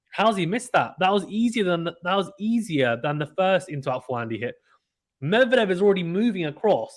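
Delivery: can't believe he missed that; disbelief. Real, not acted. Commentator baffled by an easy miss, incredulous.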